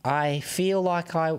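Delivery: put-on halting amateur New Zealand accent; failed Kiwi accent. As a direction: stretch it out in a shaky try at Kiwi. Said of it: "I can't do it".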